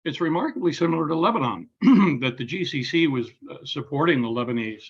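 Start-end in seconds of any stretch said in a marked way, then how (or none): 2.2-3.3 clears throat, then speaks on; throat irritated by smoke; throat clearing. Real, not acted. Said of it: "Excuse me if I'm coughing".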